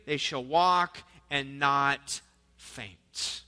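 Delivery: slow, measured Bible reading; solemn reading of the verse; scripture reading. Acted. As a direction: read it out like scripture from the pulpit. Reads Isaiah aloud.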